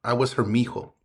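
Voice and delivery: measured, rhythmic spoken-word reading; heartfelt spoken-word poem, lines given room to land; poem recitation. Acted. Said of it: "So that's a little poem".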